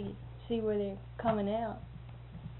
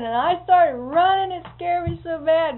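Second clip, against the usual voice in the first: excited retelling; 7 semitones higher, 10 dB louder than usual. Retold or imitated. Retold boy's scared account.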